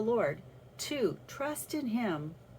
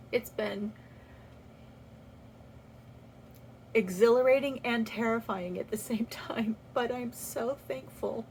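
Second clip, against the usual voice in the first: whisper. Real, not acted. Overwhelmed after a hard process.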